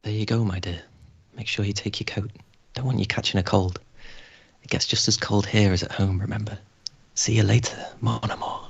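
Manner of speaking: calm soothing. Acted. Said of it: "A calm, soothing voice".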